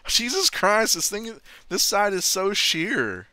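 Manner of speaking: loud, slow, laughing disbelief. Real, not acted. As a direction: laugh it out at the steep cliff. Laughing on the sheer cliff.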